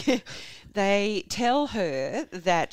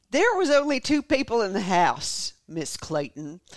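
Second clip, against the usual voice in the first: confronting cop; 6 dB louder, slower than usual. Acted. Cop confronting the wife, slow loud accusation. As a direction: press the suspect slowly and loudly.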